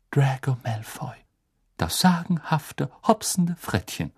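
hushed, savouring each word; blissful, half-whispered reverie; dreamy bliss. Acted. Ron savours the blissful memory.

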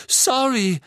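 high, loud, moaning sorry; groaned apology. A narrator's reading. Ron hit Katy with the ball, groaned apology. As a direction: groan it out in dismay. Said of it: "stöhnte Ron".

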